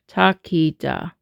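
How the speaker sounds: "Ta, ki, da" run together as one word; three even syllables, falling at the end; joined-up syllables. Shown as a demonstration. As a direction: link the three syllables smoothly. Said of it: "we're now gonna say".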